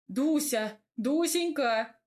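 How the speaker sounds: loud, drawn-out call, pitch climbing. A narrator's reading. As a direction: call her sweetly across the house. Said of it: "закричал я".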